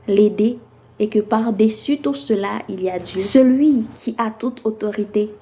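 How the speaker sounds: measured phrases set apart by deliberate pauses; spoken-word poem recital. Acted. Poet addressing listeners about submission for women's month, spoken-word recital. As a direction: recite it as slam poetry, building through the lists and settling on each closing line.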